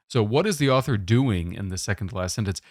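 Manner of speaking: "doing" given the main weight; stress on doing. Shown as a demonstration. Teacher singling out "doing" for the class, firm emphasis. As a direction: point the sentence at "doing". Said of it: "I'm emphasizing the word doing here".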